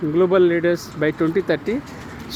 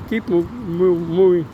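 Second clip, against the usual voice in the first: real stammer on the word, slowed. Real, not acted. Vlogger after a brain stroke urging viewers onward, stammering. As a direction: catch and repeat the first syllable before getting it out. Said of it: "Sometimes I'm stammering".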